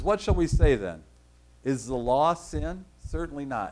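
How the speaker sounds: deliberate, measured scripture reading; slow reading. Real, not acted. Preacher reading Romans aloud to the congregation, slowly. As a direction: read it out slowly and firmly. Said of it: "I'll try to read it slowly".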